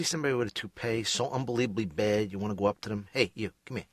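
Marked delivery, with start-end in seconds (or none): 3.1-3.9 louder, higher indignant tirade at a stranger; mock confrontation. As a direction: pretend to tell off a guy over his bad toupee. Confronting a stranger over toupee.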